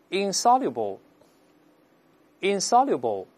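insoluble, insoluble drawn out very slowly, syllable by syllable; slow read aloud. Shown as a demonstration. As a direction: model insoluble, insoluble for students to repeat. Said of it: "再读一下不能融化的".

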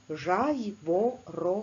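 Жайворонок drawn out slowly, syllable by syllable; slow classroom syllabification; slow syllable reading. Shown as a demonstration. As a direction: stretch Жайворонок into its four syllables. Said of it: "В цьому слові чотири склади".

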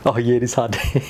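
muffled inside face mask; speaking behind sealed visor; through a snorkel mask. Real, not acted. Seen 0: Speaker wears full-face snorkel mask covering mouth and nose throughout.

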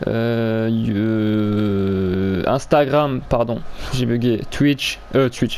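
tongue-tied, with long drawn-out hesitations; stumbling over words. Real, not acted. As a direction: fumble the names after dragged-out "euh"s. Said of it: "parce que je bégaye en fait".

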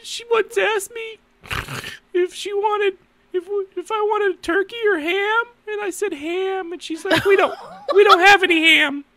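high, squeaky, laughing nearly to tears; helpless laughter. Real, not acted. Husband telling the turkey or ham story, helplessly laughing. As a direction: struggle to tell it while cracking up.

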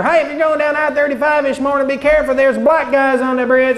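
put-on lightly done southern weatherman accent. Mock southern weatherman reading the morning forecast, light southern accent. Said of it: "really strong southern accent".

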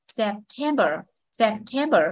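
September with a light Sep and a strong tem; sepTEMber, the unstressed syllables said gently; second-syllable stress. Shown as a demonstration. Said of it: "nhấn âm hai này".

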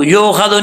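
"यो ख्वादु" with an o in place of yu; "यो ख्वादु" run together as the mistake; wrong reading. Shown as a demonstration. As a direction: show the slip in "यो ख्वादु", a loose "yo khado". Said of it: "नहीं पढ़ना".

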